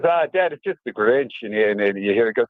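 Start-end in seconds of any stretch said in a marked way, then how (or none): 0.0-1.3 put-on kid brother calling out. Brother announces the guest to dad.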